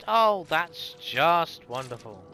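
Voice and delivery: slow, drawn out sarcastic remark; deadpan, sarcastic and slow. Real, not acted. Game glitched.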